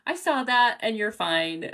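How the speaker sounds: slow, calm reassurance; calm steady tone; moderated response. Shown as a demonstration. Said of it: "keep my response at that O level".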